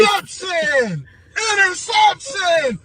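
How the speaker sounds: shouting. Real, not acted. Calling out game play.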